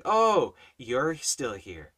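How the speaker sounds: slow, insincere mock greeting; fake smile. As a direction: imitate her with a fake, pasted-on smile. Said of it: "It's a fake smile".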